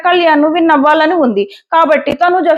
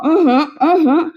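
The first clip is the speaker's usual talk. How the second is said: mock laugh; slower than usual. Mocks laughing at a joke.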